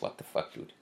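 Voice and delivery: hushed, unvoiced what the fuck; whispered disbelief. Recalling the guy who hit him, whispered disbelief. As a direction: breathe it out in disbelief. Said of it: "I'm like".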